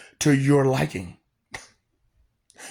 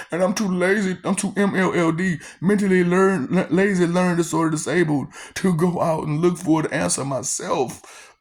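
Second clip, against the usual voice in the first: higher, mock-babyish pleading; mock whiny lazy voice; 4 semitones higher than usual. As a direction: mimic a lazy person begging to be spoon-fed. Mocking lazy people who want spoon-feeding.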